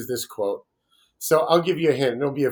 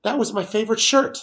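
mock Nick Cage; 8 semitones higher, 3 dB louder than usual. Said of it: "next one".

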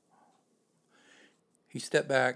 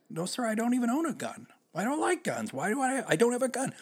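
frightened pleading; 13 semitones higher than usual. Retold or imitated. Scared driver pleading with cop.

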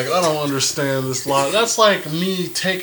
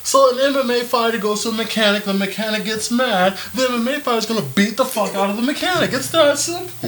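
fired up; 6 semitones higher than usual. Real, not acted. Heated agreement in movie rant.

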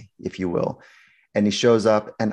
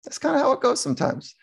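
laughing, rising high and light; laughing shrug; 12 semitones higher than usual. Retold or imitated. Shrink admitting to the guys it went badly, laughing lightly. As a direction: chuckle it off, going up in pitch. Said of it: "And I go".

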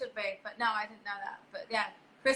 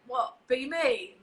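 laughing disbelief; much slower than usual. Retold or imitated. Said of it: "I'm like".

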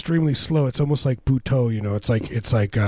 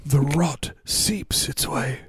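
slow, higher put-on voice of a man who fears his feet will rot; mock barefoot man; 3 semitones higher, slower than usual. Comic mimicking the barefoot guy talking about his feet, slow and high. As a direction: drag out the words like a fussy sandal man.

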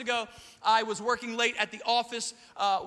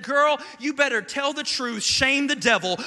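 mock outrage; 3 semitones higher, 6 dB louder than usual. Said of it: "I said".

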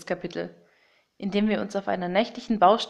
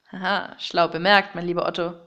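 gloating villain; 2 semitones lower than usual. Acted. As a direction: savour it like a smug villain. (hämischer Bösewicht)

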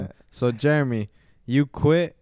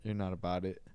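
softer, lower, under the breath; quiet dismissive; 6 semitones lower, 12 dB quieter than usual. Retold or imitated. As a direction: brush her off quietly. Retelling his dismissive reply.

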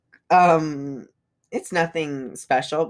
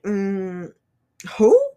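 incredulous who; 3 semitones higher than usual. Retold or imitated. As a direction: shoot the who up in shock. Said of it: "I was like".

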